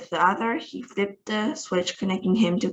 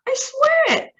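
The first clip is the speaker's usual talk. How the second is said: a far higher, louder pleading cry; desperate cry; 5 dB louder than usual. A narrator's reading. Astronaut insisting to doubting Houston, crying out desperately. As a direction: beg to be believed, voice leaping up. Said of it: "cried poor Shucksworth".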